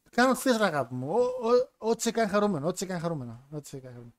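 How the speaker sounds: mock agreeable wife, fading away to near silence; indifferent wife. Wife humouring husband from the couch, indifferent, fading out. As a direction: brush him off lovingly, trailing right down. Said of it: "πολύ αδιάφορος χαρακτήρας".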